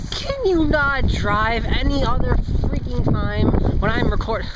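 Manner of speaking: hammed-up exasperation at an interruption; mock outrage. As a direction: scold the interrupters, half-kidding. Mock rant at passers-by, just kidding.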